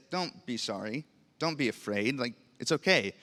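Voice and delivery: softly voiced comfort, retold; gentle reassurance. Older brother tells him it's okay, softly reassuring. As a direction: reassure quietly, dropping the volume.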